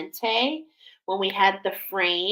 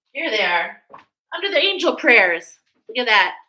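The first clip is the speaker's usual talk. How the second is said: excited find; 2 semitones higher, 6 dB louder than usual. Real, not acted. Finds the missing cards.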